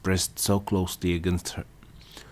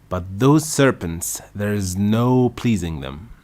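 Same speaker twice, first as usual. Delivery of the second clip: louder, indignant grumbling; aggrieved rant; 3 semitones higher, 7 dB louder than usual. A narrator's reading. Pigeon airing grievances to Alice, aggrieved rant. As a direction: rant without listening.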